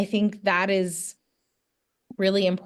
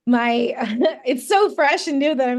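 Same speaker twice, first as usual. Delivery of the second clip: stuttering; 4 semitones higher, 4 dB louder than usual. Real, not acted. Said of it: "like, stuttering at talking about it".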